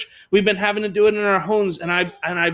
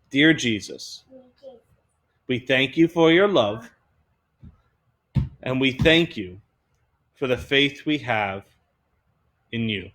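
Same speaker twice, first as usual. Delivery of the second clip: repeat after me; 8 semitones lower than usual. Shown as a demonstration. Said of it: "And everyone repeat after me".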